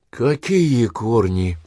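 slow, stunned question. Acted. Wife stunned by husband's death talk, slow dazed question. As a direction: ask it slowly, dumbfounded. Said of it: "обомлела Таисия Никитична".

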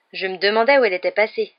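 loud, cheerful exclamation; exclaiming. A narrator's reading. Ron glad to find the missing car, exclaiming. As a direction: say it out loud with relief. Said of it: "s'exclama Ron".

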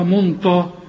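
منطا with a thick, dark ط sound; mock the mistake منطا as a question; wrongly heavy ta. Teacher challenges the student's error, wrongly heavy ta. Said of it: "ليه بتقول طا".

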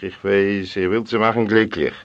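ordinary delivery, nothing marked

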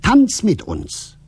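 loud, high, drawn-out invitation; slow, high singsong shout to join in; children calling out. A narrator's reading. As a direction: call like children at play. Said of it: "riefen die Kinder".

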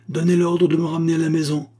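high, urgent demand on a held pitch; breathless cry. A narrator's reading. Doctor demanding to be taken home, crying out. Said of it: "s'écria le docteur, hors d'haleine".

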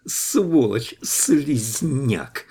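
злобно выкрикнуть ругательства; сорваться на крик; яростный крик. A narrator's reading. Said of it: "заорала она". (яростно крича)

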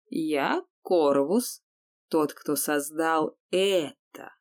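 slow, proud and ominous; menacing undead sorcerer. Acted. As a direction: announce yourself slowly and grandly. Voices Korvus.

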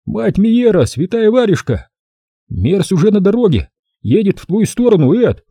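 high, urgent lisping report; lisping whistling voice. Acted. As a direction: rattle off the news in a high lisp. Tommy reports by phone.

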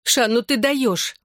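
high, drawn-out amazement; amazed. A narrator's reading. Friend marvels at the girl's confession, amazed. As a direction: stretch it out, impressed and incredulous.

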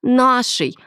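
first insistence on Нашей, short and falling; a hint of an aggressive woman; mild aggressive retort. A narrator's reading. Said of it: "агрессивно ответила Милена".

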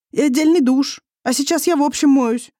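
defiant wife throwing it back at him; a young wife in a quarrel, voiced high and heated; young wife arguing. A narrator's reading.

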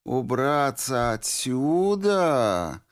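drawn-out, slow echo of his words; slowly repeated. A narrator's reading. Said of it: "медленно повторила девушка".

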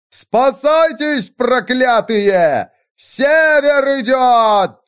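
high, slow, drawn-out yell down the gorge; full-chest shout. A narrator's reading. The widow screaming down at the wagon train, a long high shout. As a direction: bellow each word long and high to scare them. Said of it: "набрала полную грудь воздуха и крикнула вниз".

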